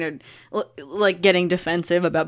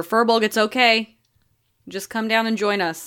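calling out; 4 semitones higher than usual. Acted. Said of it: "I just call to her".

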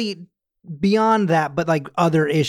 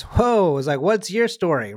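surprised cabbie; 4 semitones higher than usual. Retold or imitated. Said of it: "the guy goes".

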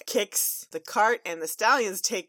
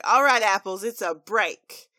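megaphone call; 8 dB louder than usual. Acted. Applejack calling the workers to break, loud. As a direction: announce it through a megaphone. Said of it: "Applejack gets on the megaphone".

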